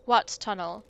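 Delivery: lightly French, flirty and coy; hint of a French lilt, teasing the investigator; mild French accent, playful. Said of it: "the accent".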